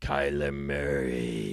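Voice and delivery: eerie, very low, creepy haunted-house tone. Joking about how a flashlight segment in a dark room should sound: creepy voice. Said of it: "do it in a creepy voice".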